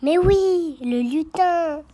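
loud, eager call-out; excited shout. Real, not acted. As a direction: shout the answer out, thrilled. Child calls out the answer.

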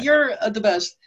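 grateful. Retold or imitated. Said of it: "I'm like".

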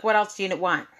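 hint of an impatient clerk; mock snappy retort. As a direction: toss it off curtly. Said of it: "She literally said it like that".

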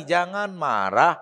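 very slow, drawn-out reply; measured counsel. Retold or imitated. The Prophet repeats his advice to the man, slow measured counsel. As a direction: stretch the advice out patiently. Prophet gives the same answer.

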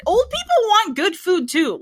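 high, loud, exasperated protest; indignant retort. Retold or imitated. Retort to a restaurant blaming elderly clientele, indignant. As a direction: protest it like an outraged objection.

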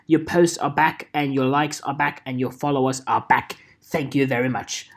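lightly voiced British gadget man; busy tech helper with a hint of British accent. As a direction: play the obliging British quartermaster, lightly. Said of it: "you should be like Q in James Bond".

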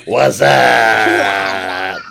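half-shouted what's up through laughter; laughing mock greeting. Teasing a cohost's mishearing with a laughing greeting. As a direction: toss back the greeting, cracking up. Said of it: "Is that what you go around saying?".

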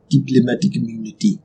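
low South African accent. Shown as a demonstration. Player practising the key phrase, South African accent. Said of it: "South African accent".

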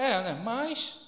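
slow, skeptical "É, né, mas"; doubtful drawl. Retold or imitated. Doubter shrugging off a healing, slow skeptical drawl. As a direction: drag it out with doubt. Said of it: "a pessoa".

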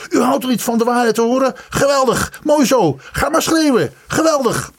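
high-pitched sarcastic outcries; heated taunting. A narrator's reading. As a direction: fling it back at him, worked up. Son keeps taunting his roaring father. (fel en honend uitroepen)

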